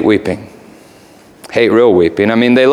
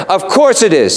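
the raven; 9 semitones higher than usual. Acted. Raven voiced.

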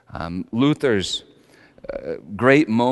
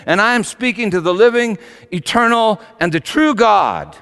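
rising into a loud anguished cry, louder and higher; Luther's anguished confession; 5 semitones higher, 6 dB louder than usual. Retold or imitated. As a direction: build from trembling awe to a loud desperate plea. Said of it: "Later he wrote this".

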